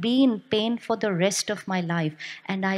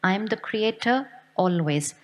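pause, then drop firmly onto "always"; stress on always. Shown as a demonstration. Teacher repeating the line for everybody, stress on "always". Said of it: "Underline the always".

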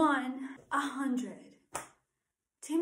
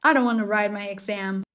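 whiny complaint; 5 semitones lower, 11 dB louder than usual. Acted. Student whining about exam.

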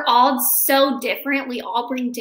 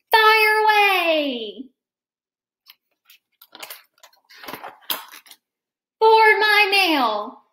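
slow launch; 7 semitones higher, 6 dB louder, much slower than usual. Acted. Eraser shot away.

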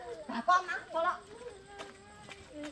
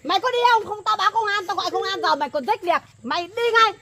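raised, higher scolding voice; angry threat; 3 semitones higher than usual. Acted. Neighbour threatening to call the police, angry. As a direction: threaten and order him out.

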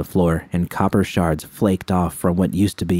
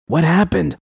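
worried; 10 semitones higher than usual. Acted. V anxious at injured friend.

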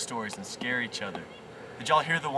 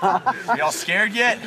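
spooky voice; 5 semitones higher, 8 dB louder, much slower than usual. Acted. Spooky campfire story tease.

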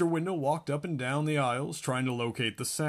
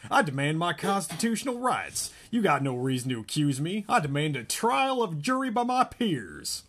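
a touch higher, mock-outraged kid demanding rights; indignant boy; 6 semitones higher, 4 dB louder than usual. Cheeky pupil to his teacher, hammed-up indignant protest. Melvin voiced in story.

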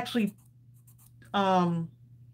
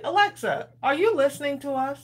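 asking the device; 6 semitones higher than usual. Retold or imitated. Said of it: "'cause I said".

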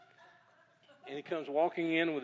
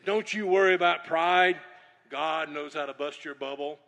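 mock prophetic shout; 3 semitones higher, 8 dB louder than usual. Bob's prophetic warning retold.

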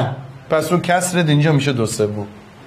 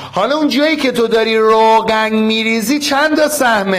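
eager quizzing call; 5 semitones higher than usual. Real, not acted. Quizzing the whole class.

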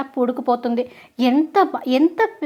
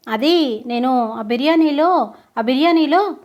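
slow, halting admission; acted reluctant stammering; hesitant confession; slower than usual. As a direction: stall guiltily before confessing. Culprit stalls before confessing.

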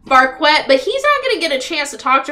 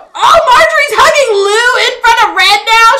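shocked question; 9 semitones higher, 8 dB louder than usual. Real, not acted. Shocked at Sim hug.

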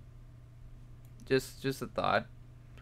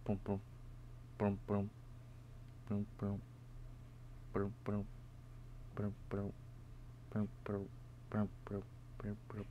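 imitated heartbeat; 12 dB quieter than usual. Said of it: "It's like a beating heart".

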